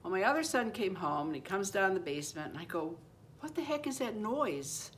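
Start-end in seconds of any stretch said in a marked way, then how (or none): 3.4-4.9 much higher, asking urgently; puzzled alarm. Retold or imitated. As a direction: ask your son about a strange bang. Asking son about banging.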